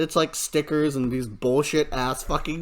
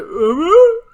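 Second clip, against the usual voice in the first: sarcastic uh-huh; 12 semitones higher, 7 dB louder than usual. Retold or imitated. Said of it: "And I was like".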